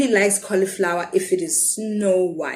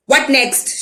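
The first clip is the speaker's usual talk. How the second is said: a lightly voiced angry shout; 5 semitones higher, 3 dB louder than usual. Seller shouting at the boy, stamping, mildly angry. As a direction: snap it out, a bit louder. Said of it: "she shouts".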